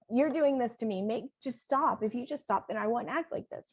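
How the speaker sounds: a hint of a pleading, whiny kid; whiny child voice. Shown as a demonstration. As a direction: mildly act out a whining child. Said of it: "very whiny".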